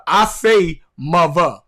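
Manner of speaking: "mother" said as "muvva"; "mother" in Baltimore accent. Shown as a demonstration. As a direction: swap the th in "mother" for v. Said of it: "when I see the word mother".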